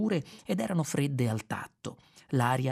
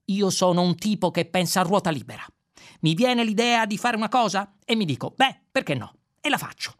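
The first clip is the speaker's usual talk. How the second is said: higher and louder, full of himself; boastful Zaphod; 9 semitones higher, 5 dB louder than usual. Acted. Zaphod lecturing Ford about himself, loud cocky swagger. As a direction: brag like nothing can stop you.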